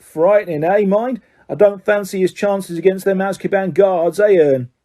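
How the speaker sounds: lightly voiced cheeky lad; Stan's voice. Stan reads the paper aloud.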